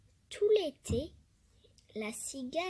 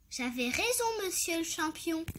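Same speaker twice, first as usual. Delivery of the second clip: mocking; 4 semitones higher, faster than usual. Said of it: "se moqua-t-elle".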